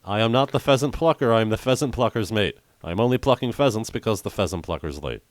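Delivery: fast careful tongue twister; tongue twister recited. Shown as a demonstration. Host recites the tongue twister for his guest, fast and careful. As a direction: rattle off "pheasant plucker" without slipping. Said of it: "But try again".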